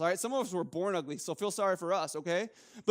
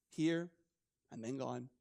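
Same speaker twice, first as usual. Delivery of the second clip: fading away; 7 semitones lower, 7 dB quieter than usual. Shown as a demonstration. Life vanishing like mist.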